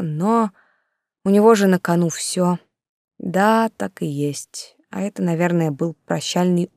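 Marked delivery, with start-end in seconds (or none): none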